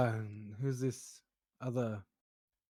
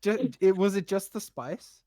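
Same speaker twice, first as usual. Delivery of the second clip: laughing high and loud through words; 9 semitones higher, 10 dB louder than usual. Real, not acted. Player cracking up at the coke joke, laughing loudly. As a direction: crack up while asking.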